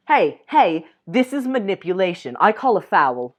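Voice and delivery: teasing outcry at a sneaky kiss; playful protest. Acted. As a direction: call foul like a ref, teasing. Playful protest at being kissed.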